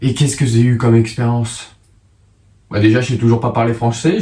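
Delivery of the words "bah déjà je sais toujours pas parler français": slushy lisped s sounds. Real, not acted. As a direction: let the s sounds slur into sh. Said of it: "je zozote là".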